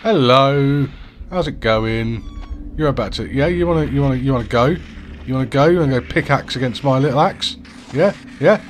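cocky high taunts; taunting. Real, not acted. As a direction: square up to him, mocking. Taunting zombie before fight.

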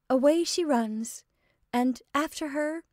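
lifted, lively storytelling cry; excited cry. A narrator's reading. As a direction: call it out with rising eagerness. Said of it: "cried Anne".

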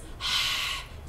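breathy gasp as if mouth burns; hot spicy exhale. Shown as a demonstration. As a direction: huff out like after a spicy bite. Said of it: "I will make like this".

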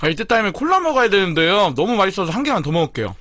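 chewing between words; eating while talking; mouth full of chicken. Real, not acted. Seen 2: bites just before, mouth busy, holding food while speaking.

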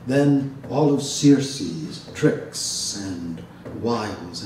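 measured, unhurried bardic recital; epic poem reading. Acted. Professor reading the Odyssey aloud to his audience, measured recital. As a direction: tell it like an ancient bard at the fire.

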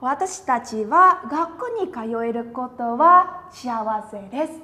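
slightly brisker model sentence, fewer breaks. Shown as a demonstration. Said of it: "Ừ, đọc nhanh nhá". (đọc nhanh hơn một chút, liền mạch)

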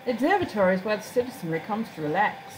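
lightly voiced formal guide; courteous town guide. Guide showing off the town's windmill, courteous formal voice. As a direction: show visitors round with polite, lilting formality.

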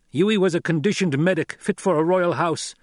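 high, heated snarled protest. A narrator's reading. Captor refusing to believe the son, snarling. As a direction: snarl back in disbelief. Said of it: "Gurney snarled".

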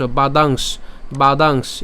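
"বাদাংশ" stopping on sh, without the cha; separated final consonant. Shown as a demonstration. Teacher detaching the last letter, careful "বাদাংশ". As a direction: end "বাদাংশ" on a held sh. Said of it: "তালিব্যাসকে আলাদা উচ্চারণ করে".

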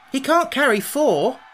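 high, loud, slow objection; objecting. A narrator's reading. Tip objects to the Scarecrow's plan, emphatically. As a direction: protest each word emphatically. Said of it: "objected Tip".

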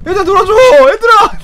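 put-on high, pleading call to the other kids; a left-out schoolkid begging to play; lonely kid calling. Left-out kid begs classmates to play, high pleading call. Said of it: "학창시절 생각나잖아".

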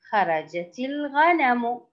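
slow, fully voweled reading; model reading. Shown as a demonstration. Teacher models the picture sentence for young pupils, slow model reading. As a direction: read it out slowly, word by word. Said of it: "ألاحظ الصور وأقرأ".

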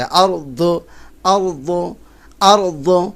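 আরদু with the Arabic ض from the tongue edge; আরদু with a heavy ض and a rising end; Arabic dad sound. Shown as a demonstration. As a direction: press the tongue edge to the upper molars on আরদু. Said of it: "দাঁতের গোড়ার সঙ্গে লাগে".

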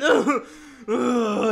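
helpless laugh; real giggling fit; cracking up. Real, not acted. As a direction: burst out laughing mid-reply. Cracks up at a comment.

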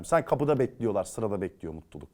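low, soft sarcastic aside; quiet mockery. Scoffing at happiness waiting at the door, quietly sarcastic. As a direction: mutter it as a joke. Mocking cliché.

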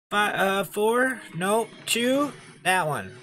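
high, loud frantic yelling; frantic excitement. Real, not acted. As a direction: yell wildly through the fight. Frantic fight, then taunting.

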